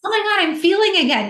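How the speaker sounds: high, fast burst of wonder; amazed relief. Retold or imitated. Woman rediscovering her emotions, quoting herself in bright amazement. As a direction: gasp it out like feelings are flooding back. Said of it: "it's like".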